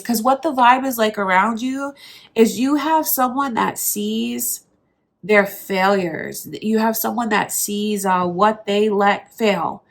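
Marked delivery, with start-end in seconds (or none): 2.3-9.8 blocked nose from allergies; congested, stuffed-up voice; stuffy nose. Real, not acted. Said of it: "sorry if I sound really stuffy".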